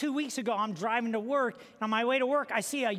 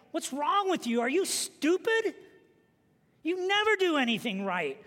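mock yelling parent; 4 semitones higher than usual. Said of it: "using words like".

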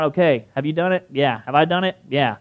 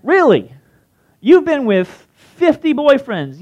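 higher, slow, put-on incredulous voice; comedian mock disbelief; 8 semitones higher, 4 dB louder, slower than usual. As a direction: drag out the disbelief. Comedian questioning lady.

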